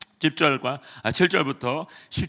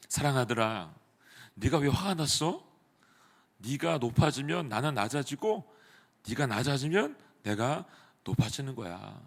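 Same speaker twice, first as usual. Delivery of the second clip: tender voice of God; 5 dB quieter than usual. Retold or imitated. God gently answering the angry young staff member, soft and tender. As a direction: speak softly like a loving father. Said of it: "하나님이 간사님한테 이런 마음을 주었다는 거죠".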